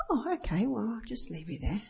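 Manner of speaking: mild, easygoing parent letting it go; gracious parent. Acted. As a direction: give in calmly, without any edge. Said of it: "You're always gracious".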